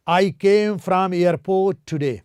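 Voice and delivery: each word slow and separate; slow dictation. Shown as a demonstration. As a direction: spell it out slowly for learners. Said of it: "teacher models English sentence slowly".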